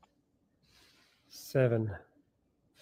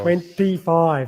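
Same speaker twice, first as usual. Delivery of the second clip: counting shout; slower than usual. Real, not acted. Final rep of live workout.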